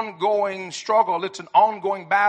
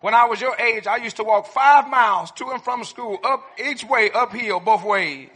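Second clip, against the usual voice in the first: booming tipsy uncle; 3 semitones higher, 6 dB louder than usual. Retold or imitated. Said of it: "How about this one?".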